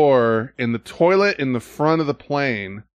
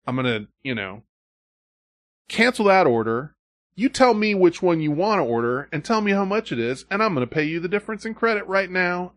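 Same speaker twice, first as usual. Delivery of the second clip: good cop; 6 semitones higher than usual. Retold or imitated. Support agent to annoyed customer, lightly voiced good cop. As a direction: play the helpful rep smoothing things over. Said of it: "And then it's good cop".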